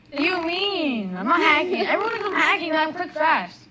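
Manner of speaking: high, loud protest; indignant protest. Real, not acted. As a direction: defend yourself heatedly. Accused of hacking.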